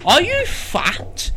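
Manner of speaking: drawn-out rhetorical ad question; slow advert hook. Pretend. Mock advert slogan.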